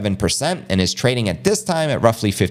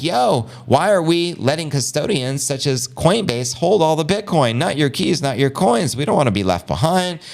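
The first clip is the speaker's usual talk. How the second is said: lightly voiced worried banker, higher pitch; banks' voice; 7 semitones higher than usual. Banks grumbling about custodians holding the Bitcoin, mock indignant. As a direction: raise it slightly, imitating indignant bankers. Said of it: "So the banks are like".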